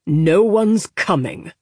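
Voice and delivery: announcing. Acted. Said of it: "announced Corda".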